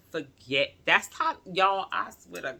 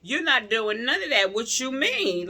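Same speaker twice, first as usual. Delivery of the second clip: loud, high, furious no; indignant loud refusal; retold angry refusal; 8 semitones higher, 5 dB louder than usual. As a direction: shout down the doctor's idea. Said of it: "I got mad. I was pissed".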